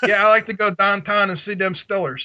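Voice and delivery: hammed-up Pittsburghese, Stillers for Steelers; Pittsburgh accent. Host answers teasing with mock Pittsburgh accent. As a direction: play up the Pittsburgh yinzer accent. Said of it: "you still have the Pittsburgh accent".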